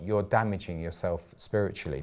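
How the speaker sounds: normal talking voice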